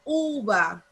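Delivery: "Uva" with a long, leaned-on U; stress on U. Shown as a demonstration. Teacher asks class where the accent falls, "Uva" stressed on U. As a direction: stretch the U of "Uva", let va fall away. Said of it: "¿Dónde llevará el acento".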